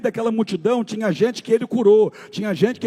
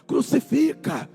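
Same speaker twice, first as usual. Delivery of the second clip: mock crowd shout; 4 semitones higher, slower than usual. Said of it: "a multidão começou a gritar".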